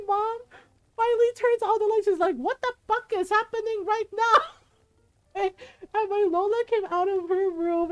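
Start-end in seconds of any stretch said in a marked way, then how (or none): 2.4-4.4 high-pitched outraged mom; exasperated yell. Retold or imitated. Mother turning on the light to screaming kids, exasperated. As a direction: demand answers like a startled, fed-up mother.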